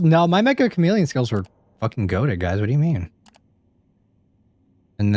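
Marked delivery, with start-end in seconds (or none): 0.0-2.6 indignant brag. Real, not acted. Indignant defence of his skills.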